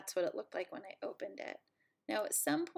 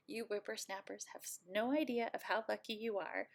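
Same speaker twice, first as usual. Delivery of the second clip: put-on old lady voice. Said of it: "this is where I sound like an old lady".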